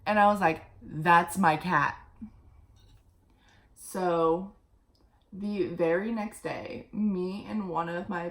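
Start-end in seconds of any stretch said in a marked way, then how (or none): 0.8-2.0 stunned recognition. Retold or imitated. Spotting her lost cat online.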